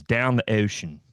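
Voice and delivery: put-on "Down the ocean" with a hard Baltimore accent, flat and stated; a light Baltimore accent saying "Down the ocean". Host voicing God in a Baltimore accent, lightly done. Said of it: "has a hard Baltimore accent".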